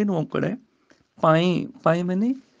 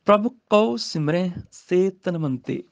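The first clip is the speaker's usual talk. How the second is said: slow scripture recitation; slower than usual. Shown as a demonstration. Teacher recites the verse for students, slowly. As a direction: chant the verse slowly, rising.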